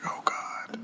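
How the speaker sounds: hushed, mortified aside, acted out; whispered dread. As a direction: breathe it out as a whispered groan. Dread at unspoken embarrassment.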